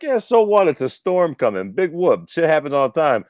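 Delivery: retold blasé shrug-off; dismissive. Smoker in the kitchen brushing off a storm warning, dismissive.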